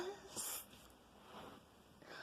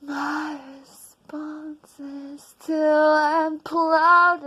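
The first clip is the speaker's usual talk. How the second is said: loud declamation; 5 dB louder than usual. Acted. Declaimed refrain.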